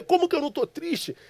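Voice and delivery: high-pitched indignant retort; retold anger. Son answers the stranger who questions his grief, retold anger. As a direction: throw the question back, incredulous and high. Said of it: "eu me levanto com raiva dele".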